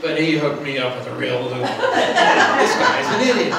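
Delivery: scornful complaint. Retold or imitated. Jezebel complains about her husband.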